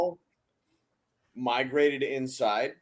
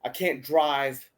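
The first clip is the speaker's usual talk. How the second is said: lightly voiced slow drunk; slow it down, imitating a drunk; imitated drunk woman; slower than usual. Drunk woman tells the group she can't drive, lightly imitated slow slur. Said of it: "'Cause she's fucked up".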